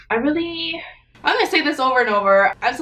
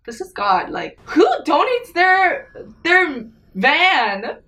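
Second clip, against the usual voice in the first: tearful; 7 semitones higher, 4 dB louder, slower than usual. Real, not acted. Retelling van donation, crying.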